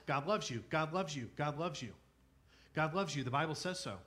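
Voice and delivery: lightly sing-song stock phrase, repeated by rote; mild mock platitude, stress on loves; rote repetition. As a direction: recite it like a worn-out cliché. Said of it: "we've heard for probably all of our lives".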